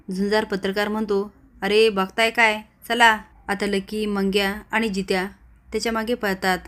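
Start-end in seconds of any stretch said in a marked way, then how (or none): 1.6-3.2 louder, slow urging call; urgent call. Retold or imitated. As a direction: rouse them to chase. Journalist urges others to chase. (पाठलागासाठी मोठ्याने हाक)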